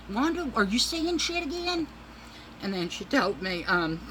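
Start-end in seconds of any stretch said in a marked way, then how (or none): 0.1-1.9 mock teasing. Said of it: "I said".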